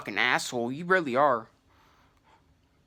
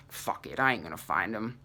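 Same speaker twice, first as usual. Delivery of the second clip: whispered give-up; 6 semitones lower, 7 dB quieter than usual. Retold or imitated. Giving up in his head.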